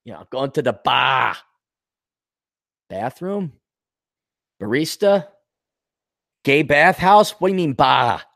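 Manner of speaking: ordinary talk, nothing marked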